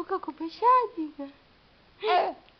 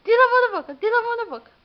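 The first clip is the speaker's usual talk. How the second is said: louder, higher firm coaxing; 6 semitones higher, 8 dB louder, much faster than usual. Real, not acted. Scolding baby hand in mouth.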